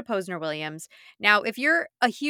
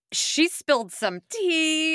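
gossipy tease; 8 semitones higher, slower than usual. Pretend. Teasing gossip.

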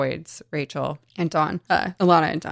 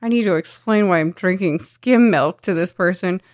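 chatty oversharing narrator; 5 semitones higher, 5 dB louder than usual. Retold or imitated. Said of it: "she's like".

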